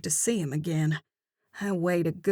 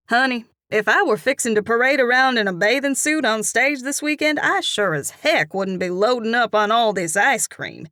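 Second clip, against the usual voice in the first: louder, higher, quick gossipy ribbing; chiding southern cashier; 5 semitones higher, 6 dB louder than usual. Acted. Cashier teasing the narrator about ice cream, chiding. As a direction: wag a finger at her.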